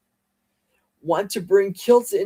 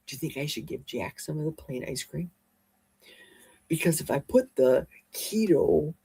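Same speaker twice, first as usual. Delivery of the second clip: much softer, hushed aside; real hushed voice, half-whispered; whispering; 6 dB quieter than usual. Real, not acted. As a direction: lean in and keep it hushed, as if the dog might hear. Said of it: "why am I whispering?".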